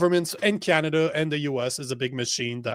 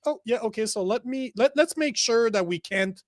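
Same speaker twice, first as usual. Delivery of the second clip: mocking officials. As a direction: mimic the smug officials covering it up. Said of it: "and they're just like".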